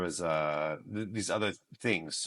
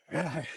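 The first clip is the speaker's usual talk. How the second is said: small, high mock roar; a half-hearted little lion roar; example lion roar; 7 semitones higher, 4 dB quieter than usual. Auditioner giving an example of a lion, high mock roar. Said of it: "yung example ko".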